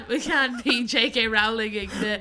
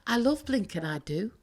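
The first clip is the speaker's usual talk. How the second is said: Welsh accent. Shown as a demonstration. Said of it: "I'm gonna try a Welsh accent now".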